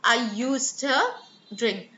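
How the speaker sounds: "used to" joined as "yoosta", slowly, pause before "drink"; slow elision demo. Shown as a demonstration. Teacher models elision slowly, "used to" as "yoosta". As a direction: draw out "I used to", rising, then "drink". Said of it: "losing sounds when they come together".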